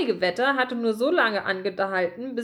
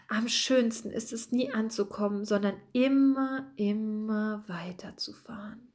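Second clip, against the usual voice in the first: softer and softer, fading into a whisper; dreamy murmur; 4 dB quieter than usual. Acted. Gruyère dreams aloud of the Caribbean, a soft fading murmur. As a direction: murmur it like a daydream, lost in thought. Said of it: "Dabei murmelte er".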